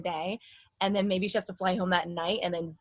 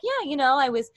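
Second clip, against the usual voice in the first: higher, lifted interview voice; middle-voice interview manner; 4 semitones higher than usual. Retold or imitated. Imitating sister giving interviews, middle voice. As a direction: place it up in the mask. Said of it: "speaking a lot in my".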